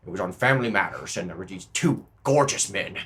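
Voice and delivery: subdued, muttering politician voice; mock presidential grumble. Comic as a president complaining about TV, muted grumble.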